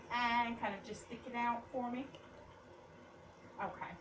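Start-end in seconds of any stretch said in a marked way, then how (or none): 0.1-0.5 demo aah. Shown as a demonstration. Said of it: "If you can say".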